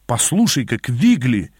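mild put-on indignation; feigned anger. Narrator bluffs Quigley, feigning anger. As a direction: act cross, punching the name. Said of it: "изобразил я гнев".

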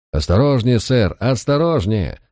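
alarmed warning. Acted. Woman warns beside frightened horse.

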